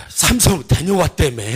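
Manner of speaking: curious villager's question; lightly voiced villager. Villagers ask the returnee about Samsung, lightly voiced. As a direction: lightly act a nosy neighbour asking. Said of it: "동네 이제 사랑방, 이게 집에 이제 다 모인 겁니다".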